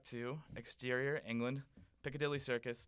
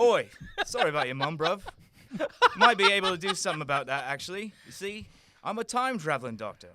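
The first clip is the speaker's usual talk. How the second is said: very loud, fast cockney; cockney Doctor; 5 semitones higher, 11 dB louder than usual. Acted. The Doctor offering to help the prince, in loud cockney. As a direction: boast in brash cockney.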